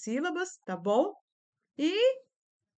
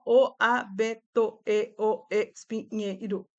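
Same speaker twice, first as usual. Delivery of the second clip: "o, a, be, to, e, o, e, espinheiro" spelled out one syllable at a time; robotic syllable reading; 2 semitones lower, slower than usual. Retold or imitated. Teacher imitating a struggling pupil's reading, robotic syllable-by-syllable. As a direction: chop every word into syllables like a little robot. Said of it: "como um robozinho, soletrando cada uma das palavras".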